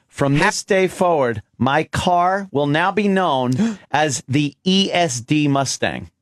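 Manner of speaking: declaimed, ceremonial announcement; mock proclamation. Host renaming his car for the room, mock proclamation. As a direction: proclaim it grandly, in measured phrases. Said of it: "Here's a proclamation".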